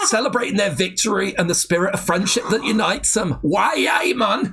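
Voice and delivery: mock Geordie, rising on the catchphrase; attempted Geordie accent. Finishing the Biker Grove script, mock Geordie accent. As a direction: build to a big Geordie sign-off. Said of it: "It's not that I've not heard a Geordie accent".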